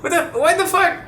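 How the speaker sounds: retold scolding of a rude friend, high and heated; indignant rant. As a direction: scold him for talking over people. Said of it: "and I'm like".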